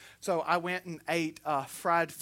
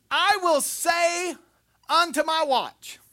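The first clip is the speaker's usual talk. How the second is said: high, loud, slow reading; ringing, raised-voice Bible reading; scripture proclamation; 8 semitones higher, 5 dB louder, slower than usual. Acted. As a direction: proclaim the verse with drawn-out force. Reads scripture at full force.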